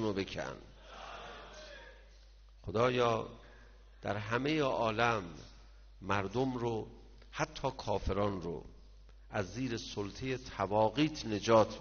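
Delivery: steady, earnest supplication; prayer. Acted. Preacher leading the mourners in prayer, earnest. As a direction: plead with God for the crowd.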